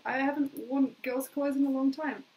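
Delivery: ordinary talk, nothing marked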